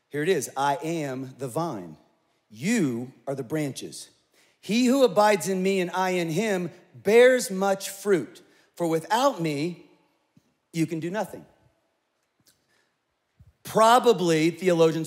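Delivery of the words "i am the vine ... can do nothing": very slow, solemn Bible reading; reading John fifteen aloud, slow and reverent; scripture reading. Acted. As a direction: weigh each word of Jesus.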